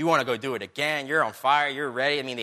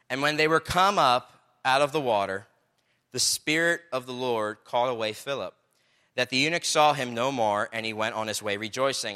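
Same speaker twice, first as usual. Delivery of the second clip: measured Bible reading aloud; scripture reading; 4 dB louder than usual. Acted. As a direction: read the verse out to the congregation. Reads scripture aloud to congregation.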